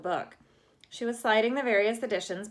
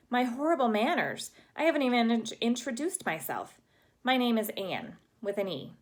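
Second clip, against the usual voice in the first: put-on dramatic girl; 5 semitones higher than usual. Anne voiced, dramatic.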